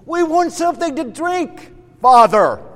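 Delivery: high-pitched mock demand; complaining. Israelites demand drink from God, complaining. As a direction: act out childish grumbling at a parent. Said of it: "they continue to complain and grumble".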